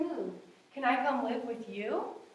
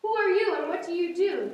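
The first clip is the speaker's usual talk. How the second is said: kind, friendly higher question; very nice voice; 6 semitones higher, 6 dB louder than usual. Acted. Zebras kindly greeting the crying cow in a nice voice. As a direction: ask it gently, like a new friend. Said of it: "came a very nice voice".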